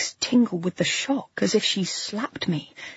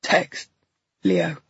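gasped. A narrator's reading. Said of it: "he gasps".

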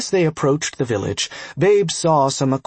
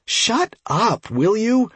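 higher, sharp shout to hush him; 8 semitones higher, slower than usual. A narrator's reading. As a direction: snap it out high over the noise. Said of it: "Ross shouted".

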